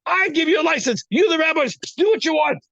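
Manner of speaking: a hint of a fatherly God granting permission; God speaking. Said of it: "God said".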